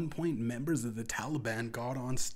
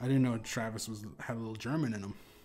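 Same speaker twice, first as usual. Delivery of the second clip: normal talking voice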